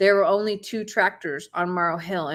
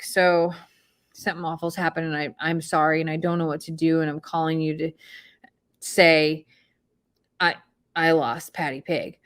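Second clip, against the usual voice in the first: retold panicky confession; 4 semitones lower than usual. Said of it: "I FaceTime him and I am panicking".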